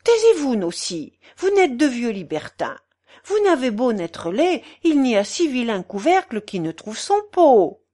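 high outburst, then voluble chiding; scolding portress. Acted. Portress silencing the German and teasing the patient, scolding. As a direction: hush him, then rattle on reprovingly. Portress snaps back at Schmucke.

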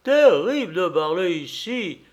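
storybook sheep's head voice; bleating sheep. A narrator's reading. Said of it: "bêla la tête de mouton".

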